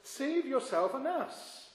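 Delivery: mocking. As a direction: imitate a mocker's jeer, drawing out the end. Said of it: "he mocks Jesus as well".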